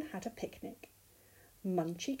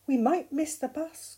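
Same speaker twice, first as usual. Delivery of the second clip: raised, louder storybook call; 5 semitones higher, 7 dB louder than usual. A narrator's reading. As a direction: call it out higher, as Mole. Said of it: "called Mole".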